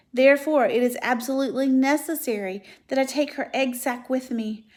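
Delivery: high, loud, rising desperation; urgent pleading. Acted.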